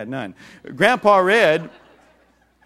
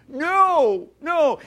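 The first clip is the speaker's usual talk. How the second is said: put-on angry child's no; 11 semitones higher, 4 dB louder than usual. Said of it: "He was mad".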